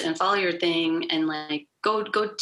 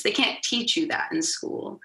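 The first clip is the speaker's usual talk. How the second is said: voice cracking; 4 semitones higher than usual. Real, not acted. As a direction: voice cracks mid-sentence. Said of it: "my voice just cracked".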